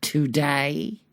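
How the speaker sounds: high-pitched bratty tantrum; hammed-up child's screamed refusal, dragged out at the end. A narrator's reading. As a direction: wail it high like a boy refusing dinner. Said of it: "he screamed out".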